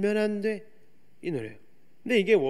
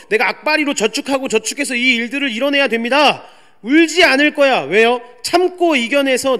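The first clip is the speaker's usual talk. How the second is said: driven shout; 3 semitones higher, 7 dB louder than usual. Retold or imitated. Voices driven, tearless striver.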